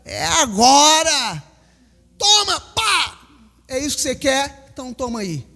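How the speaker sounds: a hint of a gloating tempter; the devil. Pastor voices the devil pouncing on a troubled preacher, taunting. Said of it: "o diabo ... falou".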